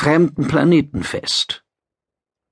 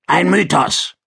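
gruff lizard voice; 5 semitones higher than usual. Acted. Gil Quan interrupts.

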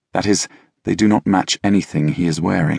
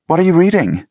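high, loud voiced boyfriend; Kurt's voice; 11 semitones higher, 5 dB louder than usual. A narrator's reading. Kurt picking up Scott's book, asking high and curious.

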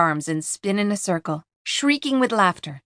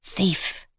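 unearthly whisper; 4 dB quieter than usual. Acted. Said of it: "whispers a voice".

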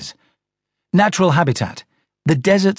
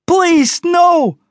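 strange voice; 5 dB louder than usual. A narrator's reading. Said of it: "came the strange voice".

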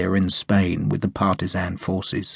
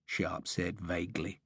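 ordinary delivery

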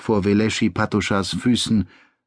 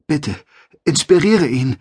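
pleading; 5 semitones higher, 3 dB louder than usual. Acted. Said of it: "sagte Veleschi zu den vereinten Funkenbäumen".

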